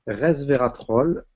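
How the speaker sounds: slowly spelling out Resveratrol; slow dictation. Shown as a demonstration. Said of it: "je vais vous le noter".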